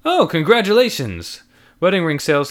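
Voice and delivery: clerk's thought in customer voice; wrong character voice. Acted. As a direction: slip into the wrong voice. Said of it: "said the narrator in the wrong voice".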